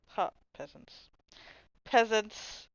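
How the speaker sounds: hammed-up gloat; mock gloating. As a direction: lord it over them jokingly. Mock gloating after winning.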